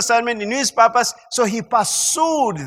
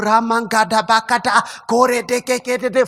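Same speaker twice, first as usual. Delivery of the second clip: imitating a droning morning prayer in tongues; mock tongues prayer. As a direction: rattle off mock prayer syllables. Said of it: "don't wake up in the morning and tell".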